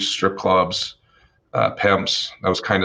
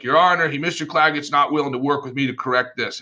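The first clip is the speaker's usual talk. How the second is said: higher, plaintive complaint; whiny tattling lawyer; 5 semitones higher than usual. Retold or imitated. Opposing lawyer complaining to the judge, whiny. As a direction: play the snitch to the judge.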